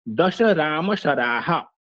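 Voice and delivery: slow recitation with a short stop between "दश" and "राम"; यति के साथ पाठ. Shown as a demonstration. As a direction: pause after "दश" before saying "राम". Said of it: "राम का उच्चारण करने के पूर्व कुछ समय रुकना". ("दश" के बाद थोड़ा रुककर "राम" बोलें)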